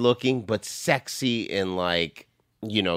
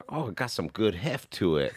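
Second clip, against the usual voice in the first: lightly voiced stripper; 7 dB quieter than usual. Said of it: "She's like".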